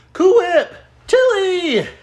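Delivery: high loud call to the pets. Real, not acted. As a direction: call the cat across the room. Calling out to pets.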